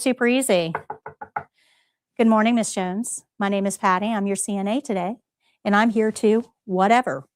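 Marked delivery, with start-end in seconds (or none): 2.2-7.3 demo patient greeting. Shown as a demonstration. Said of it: "this is how we're gonna do our opening".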